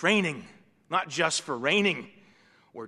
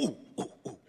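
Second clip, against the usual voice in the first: breathy excited ooh; 5 dB quieter than usual. Retold or imitated. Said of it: "the kid would go".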